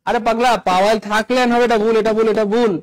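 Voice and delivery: loud correction. Real, not acted. Teacher scolds a common rule.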